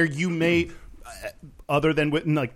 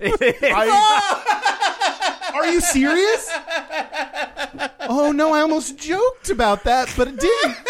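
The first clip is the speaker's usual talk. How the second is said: high loud shocked laughter; shocked laughing; 10 semitones higher, 4 dB louder than usual. Real, not acted. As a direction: burst out in disbelief. Shocked the question is from mom.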